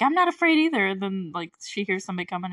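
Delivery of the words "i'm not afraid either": mock brave shrew. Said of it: "and she's like".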